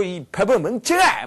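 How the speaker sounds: loud, high, drawn-out insult; cursing at water. Shown as a demonstration. Lecturer showing how people curse at the water, loud mock fury. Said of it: "막 이렇게 욕을 하는 거예요".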